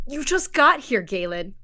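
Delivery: high, loud and startled protest. Acted. Bee protesting loudly in disbelief that Galen is leaving, voice high. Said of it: "her tone gets a little higher".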